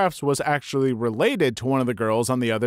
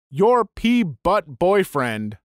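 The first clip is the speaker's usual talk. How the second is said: slow, higher retold yell; mild yell back; 4 semitones higher, 3 dB louder, much slower than usual. Man answering the girl from his truck, mild yell. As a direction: draw out a mildly yelled comeback. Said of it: "he just yells back".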